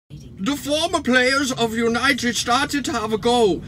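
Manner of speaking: mock Van Gaal with a half-hearted Dutch accent. Quoting Van Gaal's complaint in a weak mock Dutch accent. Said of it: "Bit of shit, that accent".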